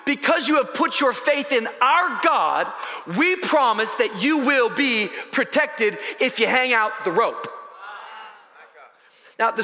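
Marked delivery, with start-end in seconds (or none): 0.0-7.5 raised, emphatic preaching voice. Acted. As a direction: proclaim the promise to the listeners. Preaches with full voice.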